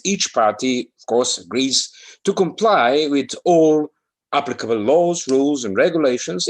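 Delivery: dramatic, heightened recital of dry legal text; expressive reading. Acted. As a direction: read the clauses like a rousing announcement. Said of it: "Who feels expressive today?".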